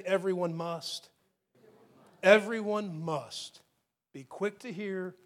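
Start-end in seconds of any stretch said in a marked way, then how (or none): 0.0-3.6 Everyone must, slow and deliberate; slow call-and-response prompt; stress on Everyone must. Shown as a demonstration. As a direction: model the phrase for the crowd to repeat. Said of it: "Will you just say".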